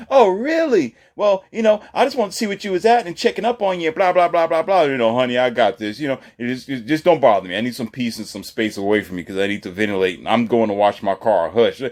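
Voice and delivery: high, loud mock nagging voice sliding back down; mocking woman. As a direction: nag him in a high put-on voice. Voicing nagging woman then reply.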